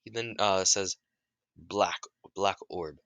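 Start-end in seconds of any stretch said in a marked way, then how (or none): 1.6-3.0 slow, solemn spell; slow incantation. Retold or imitated. Naruto casting the orb spell, slow and solemn. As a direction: intone it slowly.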